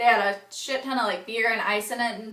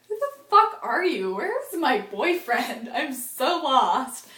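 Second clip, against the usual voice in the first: bewildered outburst; 3 semitones higher, slower than usual. Retold or imitated. Confused drunk with stranger Chad.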